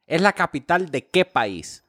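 es la capital de qué país spelled out slowly; slowly, word by word, so he gets it; slow quizmaster repeat. Shown as a demonstration. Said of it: "repeated for the listener".

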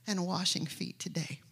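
soft unvoiced trailing question; whisper. Real, not acted. Preacher asking the church quietly, whispered. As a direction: let it fall to a whisper.

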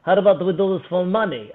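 imitated Russian accent. Russian proposes a bet to him, imitated Russian accent. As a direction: play the Russian challenger, accent on. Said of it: "that is a pristine Russian accent".

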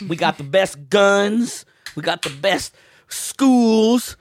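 drawn-out Southern boasting; Southern drawl. Acted. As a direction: stretch it out like a bragging Southern patriot. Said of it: "issues with people with Southern draws".

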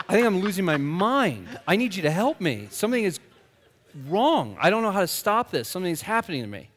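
loud, urgent plea for help; acted distress. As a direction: plead as if coming undone, without real tears. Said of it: "and I started crying".

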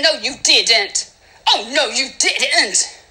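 slow, drawn-out mock affront; sassy disbelief. God affronted at being ignored, slow sassy scolding. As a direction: stretch each word with sassy reproach.

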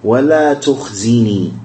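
وَلَا تُخْزِنِي said slowly for writing down; careful dictation pace. Shown as a demonstration. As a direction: dictate وَلَا تُخْزِنِي so they can write it. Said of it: "I'm gonna say it again slowly".

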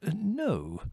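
high, hesitant contradiction; proud. A narrator's reading. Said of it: "went on Theodore proudly".

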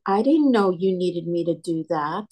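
whispered, meek and helpless. Retold or imitated. The helpless spouse, after the argument, whispering. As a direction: whisper it like a clueless spouse caught out.

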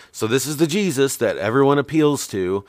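lightly voiced dreamy hippie; a hint of a mellow hippie. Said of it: "that's my best hippie voice".

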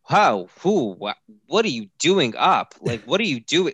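high, loud mock-baffled questions; baffled questioning. Husband retelling his dazed night-time questions, mock baffled.

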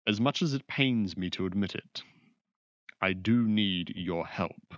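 lightly voiced proud mage, grudging; a hint of formal reluctance, slowing on the plea; reluctant sorcerer. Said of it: "and goes".

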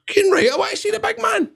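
high-pitched burst of fan excitement; excited yes. Retold or imitated. Wrestler answering Jeff's offer to meet his hero, thrilled. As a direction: re-enact an eager reply in a very high voice.

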